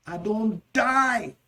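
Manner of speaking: high, drawn-out cry of suffering; agonised wail. Shown as a demonstration. Teacher acting out excruciating pain, agonised. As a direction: wail slowly as if dying of pain. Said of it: "When the pain is intense or excruciating".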